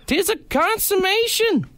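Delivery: put-on hammy Canadian accent, pitch leaping high on key words; Canadian bud Hamlet. Reading Hamlet to his cohost as a Canadian bud, hammed-up accent. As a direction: deliver Hamlet like a hockey-rink hoser. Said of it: "I gotta get in character".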